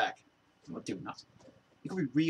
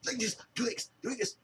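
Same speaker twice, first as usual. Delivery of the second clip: higher, mocking imitation of a pushy guy; high sneering impression of a bossy dude; 9 semitones higher than usual. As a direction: parrot him in a silly high voice. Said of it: "you go".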